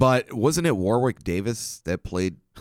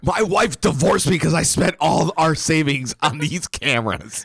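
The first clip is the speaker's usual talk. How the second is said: high, worked-up mock despair; frantic lament; 8 semitones higher, 4 dB louder than usual. Man who spent his savings on cameras, mock distraught. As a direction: wail it as a hammed-up complaint. Acted ruined ghost hunter complains.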